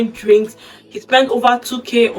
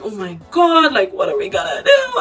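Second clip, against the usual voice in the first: panicked. Retold or imitated. Wife panics over husband's debt.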